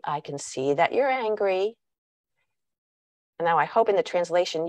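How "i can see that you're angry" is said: dismissive tone. Shown as a demonstration. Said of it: "her tone of voice is saying, Calm down".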